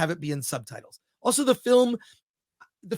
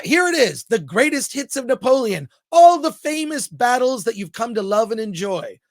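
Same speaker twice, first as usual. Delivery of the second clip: higher, louder hammed-up promo voice; mock trailer announcer; 3 semitones higher, 4 dB louder than usual. Host mocks the film as a cliff-notes greatest-hits reel, hammed-up announcer voice. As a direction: sell it like a cheesy greatest-hits ad.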